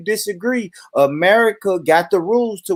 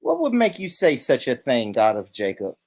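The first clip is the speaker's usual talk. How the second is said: softly affronted, lightly voiced white man; Todd; 5 semitones lower, 5 dB quieter than usual. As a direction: play the rich white man taking mild offence. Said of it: "transform myself into a rich white man".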